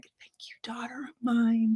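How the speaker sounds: breathless whisper of thanks. Retold or imitated. Mother to her daughter, overcome, in a whisper. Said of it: "she's just like".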